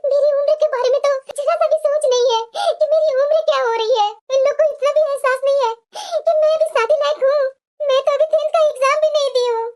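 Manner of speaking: put-on upset young bride's lament; distressed lament. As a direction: pour out the grievance between audible breaths. Bride laments her forced early marriage.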